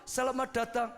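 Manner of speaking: lightly voiced parrot singing out a welcome. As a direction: squawk it out like a pet parrot. Parrot greets him again.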